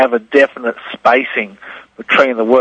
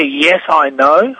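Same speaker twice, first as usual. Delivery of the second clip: slow reading; 2 semitones higher, much slower than usual. Shown as a demonstration. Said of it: "I can hear".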